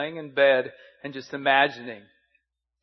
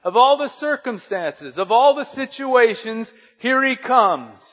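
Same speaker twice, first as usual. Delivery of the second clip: higher, louder, slow excited broadcast call; Vin Scully; 8 semitones higher, 8 dB louder than usual. Retold or imitated. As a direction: savor the big moment like a play-by-play legend. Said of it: "Vin Scully in that just golden voice of his would say".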